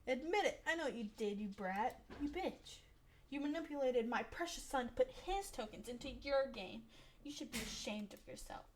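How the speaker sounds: angry mother scolding. Acted. Angry mom yelling at a boy in the arcade, furious. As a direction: tear into the boy like an outraged mom.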